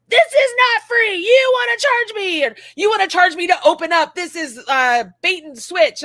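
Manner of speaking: shrill high outraged rant, loud; mocking angry customer. Customer complaining about paying, mock outrage. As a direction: mimic a furious customer yelling. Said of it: "people like".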